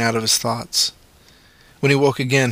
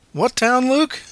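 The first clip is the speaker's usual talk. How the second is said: calm question; 13 semitones higher, slower than usual. A narrator's reading. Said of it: "the man said calmly".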